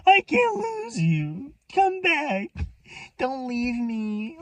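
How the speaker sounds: high, drawn-out tearful wail; hammed-up imitation of a desperate scream; mock screaming. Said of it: "And now he's screaming".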